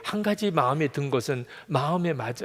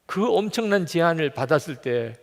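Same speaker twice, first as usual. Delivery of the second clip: ordinary talk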